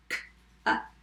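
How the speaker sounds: "k, up" in separate short sounds; sounded out. Shown as a demonstration. Teacher tapping cup for spellers, sounded out. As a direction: tap out "k, up" sound by sound. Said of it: "tap cup".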